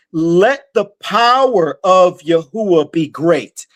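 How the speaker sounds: measured preacher reading from the Bible; scripture reading. Acted. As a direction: read the verse out deliberately, stretching key words. Reads scripture aloud.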